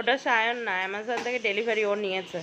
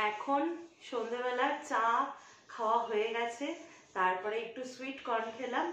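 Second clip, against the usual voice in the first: conspiratorial hush, planning a surprise; hushed secret talk; 3 semitones lower, 11 dB quieter than usual. Real, not acted. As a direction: keep it very soft so mom can't hear. Hiding surprise gift from mother. (মায়ের কাছে লুকিয়ে, খুব নিচু গলায় ফিসফিসে কথা)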